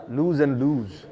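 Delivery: very slow "lose and lose", vowels held long; emphasised vowels. Shown as a demonstration. Teacher repeating a sound contrast for learners, "lose and lose" with emphasised vowels. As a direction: linger on the vowel of each word in "lose and lose". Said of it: "give emphasis to every, uh, vowel".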